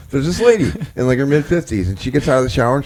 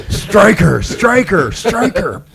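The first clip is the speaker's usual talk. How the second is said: higher, laughing call of the name; Airplane quote; 7 semitones higher, much slower than usual. Retold or imitated. Quoting Airplane to friends as a mock-urgent call. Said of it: "It's from Airplane".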